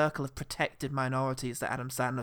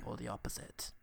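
stuffy film critic host; 3 dB quieter than usual. Acted. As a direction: savour every word like a critic. Hosts mock film review show.

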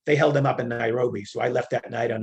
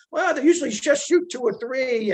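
casual guard; 10 semitones higher than usual. Retold or imitated. Retold UN guard, dismissive.

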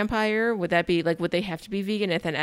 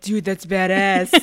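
mock awe; 5 dB louder, slower than usual. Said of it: "I was like".

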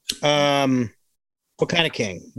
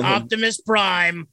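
Larry King; 3 semitones higher, slower than usual. Retold or imitated. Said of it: "I think we could do a Larry King".

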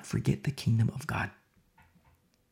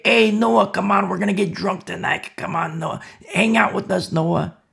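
a hint of a mocking friend, calling higher; taunting call; 5 semitones higher than usual. Scoffers calling Noah to get drunk, lightly jeering. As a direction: tease him into coming along.

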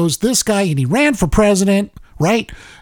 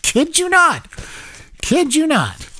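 incredulous; 10 semitones higher than usual. Real, not acted. Stunned reaction to spicy news.

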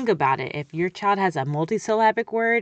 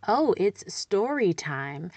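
put-on drawn out slowly like to a toddler; slow modeling voice; slower than usual. Shown as a demonstration. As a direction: announce story time slowly and sweetly. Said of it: "and I model".

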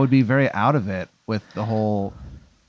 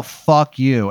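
loud, raised yell while running out; 3 semitones higher, 4 dB louder than usual. Retold or imitated. Fleeing the wedding, yelling at Mickey, loud. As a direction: shout it back over your shoulder. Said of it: "I yell".

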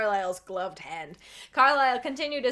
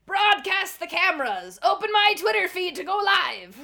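demanding; 8 semitones higher, 6 dB louder than usual. Acted. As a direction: bark orders like a villain. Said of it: "Lord Bezos demanded".

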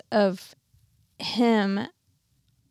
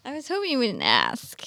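whispered aside; 2 semitones higher, 6 dB quieter than usual. Real, not acted. Dreading the question, jokingly.

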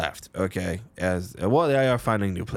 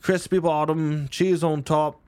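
slowly relishing each topping, raised voice; savouring description; 6 semitones higher, slower than usual. Acted. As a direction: linger over every tasty word. Hawking food, slow and savouring.

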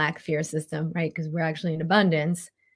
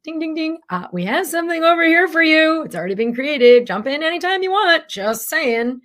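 much higher and louder, a chirpy announcer voice; life as a game show host; 11 semitones higher, 8 dB louder than usual. Acted. Life nudging her toward the new path, chirpy announcer voice. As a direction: ring it out like a cheerful quiz host. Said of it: "life's like".

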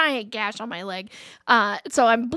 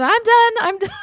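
high, loud mock plea; calling out surrender; 9 semitones higher, 5 dB louder than usual. Thrown rider waving to the driver, calling out. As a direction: call it out like waving for rescue. Retold begging off after falling.

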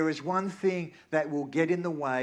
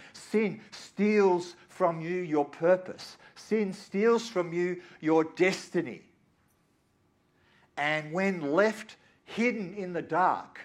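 preaching; 5 semitones higher, 3 dB louder, slower than usual. Acted. Preaching at full force.

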